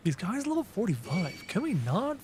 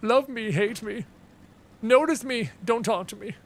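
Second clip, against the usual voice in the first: higher, hammed-up needy voice; mock emotional diva; 6 semitones higher than usual. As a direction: play the impossible-to-please diva.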